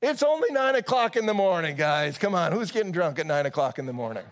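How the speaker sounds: high, loud protest easing into exasperation; incredulous Peter. Acted. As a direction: call out to the crowd in hammed-up disbelief. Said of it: "where he's like".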